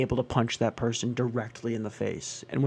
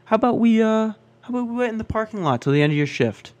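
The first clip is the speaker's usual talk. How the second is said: much higher, louder, fast mock threat; menacing customer voice; 10 semitones higher, 6 dB louder, faster than usual. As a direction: play him as a creepy guy threatening to wait outside. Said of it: "He goes".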